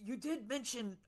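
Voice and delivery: grovel, then hint at the pay; a poor rope maker, lightly put-on and meek; humble peasant. Player voices Spence.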